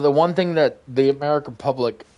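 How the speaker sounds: holding back a sneeze; about to sneeze. Real, not acted. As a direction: speak with a sneeze coming. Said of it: "sorry, I'm sneezing".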